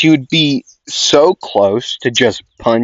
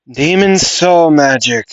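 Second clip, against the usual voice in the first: higher-pitched character spell call; a higher voice, trying out the character; Marilona voice; 5 semitones higher, 3 dB louder than usual. Acted. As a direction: lightly voice a character naming a spell. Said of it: "trying to find that, like, Marilona voice".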